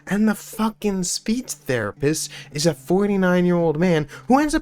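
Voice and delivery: high, seething rant dropping into a whisper; furious rant. Real, not acted. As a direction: spit it out in disbelief, then hiss the end. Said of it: "I'm so mad right now".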